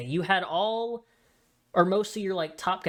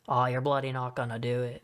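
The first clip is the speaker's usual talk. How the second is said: hammed-up bad Australian accent, pitched lower; low, badly faked Australian accent; terrible Australian accent; 4 semitones lower than usual. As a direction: do a clumsy mock Australian. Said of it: "That was a terrible Australian accent".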